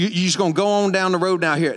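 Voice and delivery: lightly put-on Southern accent; a hint of country local; Southern direction-giver. Imitating locals who give vague directions, light Southern accent. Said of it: "somebody give you directions like that".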